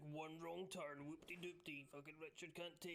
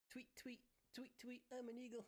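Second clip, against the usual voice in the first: pansy bird chirp; 3 semitones higher than usual. Retold or imitated. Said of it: "An eagle chirps like a goddamn pansy bird".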